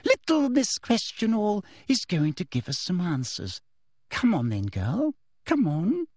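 gloating, mocking woman's voice; triumphant. A narrator's reading. Teacher orders crying girl to talk, triumphant. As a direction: coax with smug triumph. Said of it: "looking triumphant".

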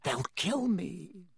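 slow, strained, fearful begging; croaked plea. A narrator's reading. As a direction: beg weakly as the voice croaks. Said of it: "croaked Harry".

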